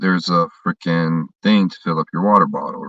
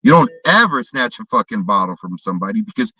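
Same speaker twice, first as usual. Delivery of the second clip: raised angry tirade; retold tirade; 5 semitones higher than usual. Yelling at the drunk father, raised angry tirade. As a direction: tear into him, higher and sharper. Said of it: "I said".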